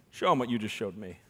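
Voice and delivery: amused, chuckling as you speak; laughing request. Retold or imitated. Constable laughing to the backup officers. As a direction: say it through a laugh.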